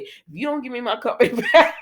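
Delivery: laughing through the threat; cracking up mid-line. Real, not acted. Laughs through Devon's quote.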